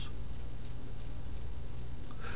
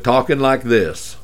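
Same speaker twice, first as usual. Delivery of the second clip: Dallas accent; 2 semitones higher than usual. Shown as a demonstration. Radio host recalling a lingering habit, light Dallas accent. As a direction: talk with a touch of Dallas. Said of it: "headquartered in Dallas".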